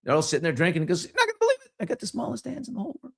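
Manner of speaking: high, thrilled bar-joke boast; bursting in to brag to his friends; excited drunk boast. Acted. Bar joke guy bragging to friends, high and thrilled.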